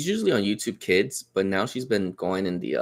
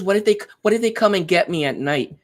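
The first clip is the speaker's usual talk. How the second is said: put-on higher, louder voice of a fretting child; imitated worried child; 7 semitones higher, 6 dB louder than usual. Scared daughter asking dad about monsters at night, imitated worry. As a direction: act out a child's anxious what-if.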